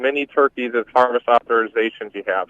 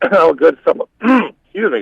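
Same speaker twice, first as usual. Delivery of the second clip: clearing a frog from the throat; throat catching mid-sentence; 5 semitones higher than usual. Real, not acted. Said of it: "got a frog in my throat".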